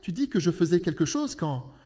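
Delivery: a sweet-looking wife's harsh rant; angry wife. Acted. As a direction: berate your husband furiously. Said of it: "un tel ton de voix et puisse parler ainsi".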